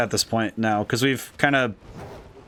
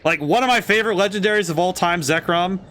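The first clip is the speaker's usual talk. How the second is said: excited disbelief; 4 semitones higher than usual. Real, not acted. Excited disbelief about Zekrom.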